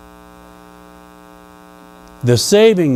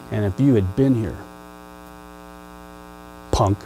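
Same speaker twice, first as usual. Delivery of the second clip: soft-spoken sneering challenge, softer; Martha in his face; 4 semitones lower, 9 dB quieter than usual. Retold or imitated. Martha confronting Jesus over her brother, mock sneer. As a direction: sneer it, lip raised, under the breath. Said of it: "in his face with a raised lip".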